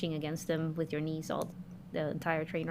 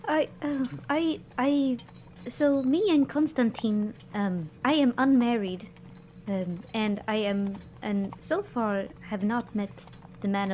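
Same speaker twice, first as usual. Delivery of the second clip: higher flustered stammer; flustered lady; 4 semitones higher than usual. Acted. Vilma stammers to Mary about Constantine, higher and flustered. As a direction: stammer out a denial.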